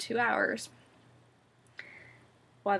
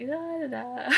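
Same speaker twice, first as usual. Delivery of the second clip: raised, loopy nonsense syllables; dopey babble; 4 semitones higher, slower than usual. Acted. Vlogger showing viewers her anesthesia fog, dopey. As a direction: babble it as if still woozy. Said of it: "still a little dopey from the anesthesia".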